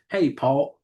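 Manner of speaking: Paul as a Southern Paw, calling dad; country Paul. Shown as a demonstration. Host showing how country folks hail their dad as Paul. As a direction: call out Paul the country way, like Pop.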